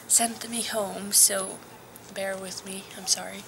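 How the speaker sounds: usual speaking voice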